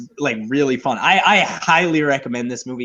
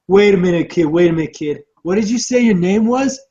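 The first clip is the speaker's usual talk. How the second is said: lightly acted tycoon, raised pitch; Donald Trump; 4 semitones higher, 4 dB louder than usual. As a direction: cut in with a mock questioning higher voice. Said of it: "and then Donald Trump is like".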